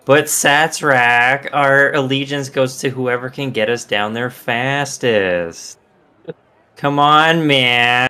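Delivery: whining, pleading goblin; whiny voice. Acted. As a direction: whine and beg. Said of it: "in, like, a whiny voice".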